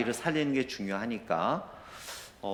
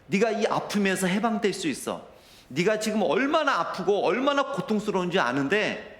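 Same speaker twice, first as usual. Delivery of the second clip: tearful plea; 5 semitones higher than usual. Retold or imitated. Father silently tells his sick baby son to endure, tearful and rising. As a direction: pitch climbing higher as the voice strains with tears. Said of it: "제가 눈물을 흘리면서".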